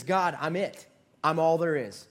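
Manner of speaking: lightly acted pity-party cry; self-pitying Elijah. Prophet telling God he is all there is, self-pitying. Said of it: "He's kinda having a pity party".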